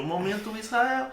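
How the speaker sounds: soft, drawn-out jingle announcement; jingle sting. Pretend. Co-host mimes pressing the button for the segment sting, soft drawn-out jingle. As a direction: stretch it out quietly like a show sting. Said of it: "o somzinho".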